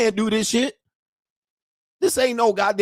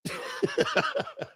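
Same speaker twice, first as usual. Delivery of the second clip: sudden squeaky high-pitched laugh; high cackling laugh; 8 dB quieter than usual. Real, not acted. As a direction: burst into a high wheezy giggle. Laughs at his own rant.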